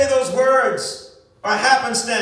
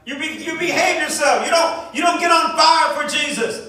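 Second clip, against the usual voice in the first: scolding church folk; 2 semitones higher than usual. Retold or imitated. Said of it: "They said".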